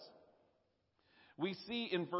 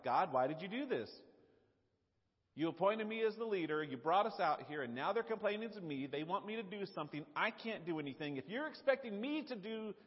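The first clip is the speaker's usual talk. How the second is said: higher, pleading exasperation; exasperated complaint; 5 semitones higher than usual. Retold or imitated. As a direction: throw up your hands at God. Acting out Moses complaining to God.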